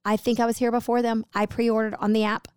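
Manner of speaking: lightly voiced complaining customer; a touch of Karen, politely insistent; best Karen voice. Customer says she was ahead in line, mild Karen voice. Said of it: "in my best K voice".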